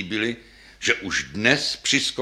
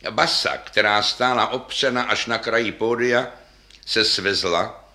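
ordinary delivery, nothing marked

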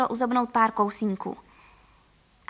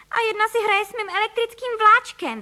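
put-on very high, loud little boy's voice; small boy shouting about his toy train; indignant boy's cry; 10 semitones higher, 6 dB louder than usual. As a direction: yell like an upset child. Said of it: "vykřikl Filip".

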